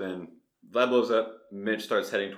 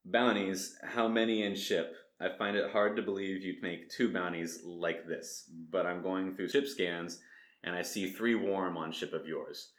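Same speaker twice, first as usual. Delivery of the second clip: put-on Vlad, Eastern European accent. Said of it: "imagine I sound like an Eastern European".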